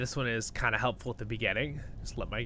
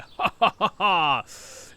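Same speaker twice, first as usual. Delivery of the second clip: laugh; 7 semitones higher, 7 dB louder than usual. Real, not acted. Laugh after XP.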